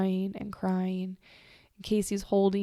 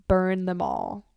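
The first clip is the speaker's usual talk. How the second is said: slow villain line. Retold or imitated. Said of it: "quoting Daenerys".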